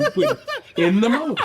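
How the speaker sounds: laughing declaration. Retold or imitated. Retelling defiant declaration.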